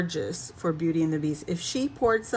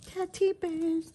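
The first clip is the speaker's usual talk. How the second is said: excited naming; 10 semitones higher than usual. Shown as a demonstration.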